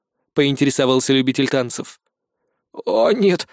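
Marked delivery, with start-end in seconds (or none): 2.7-3.5 high, rising frantic refusal; a terrified repeated no; frightened protest. A narrator's reading. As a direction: back away in panic. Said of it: "запротестовал осьминог".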